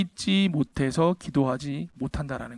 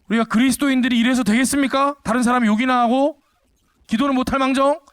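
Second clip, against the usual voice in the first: higher, louder indignant cry; retold outcry; 5 semitones higher, 3 dB louder than usual. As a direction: slap the table and call the group out. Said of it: "누가 그렇게 외친다". (험담하는 모임에서 정색하고 외치는 사람, 높고 큰 외침)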